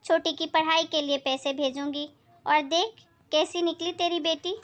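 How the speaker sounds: lightly voiced sharp-tongued aunt; scolding neighbour aunt. Neighbour chides Sheela about her daughter, blunt.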